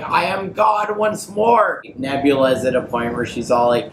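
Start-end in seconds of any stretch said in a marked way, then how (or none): 0.0-1.8 much higher, slow, grand declaration; mock godlike proclamation. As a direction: announce it slowly like a returning god. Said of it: "He's like".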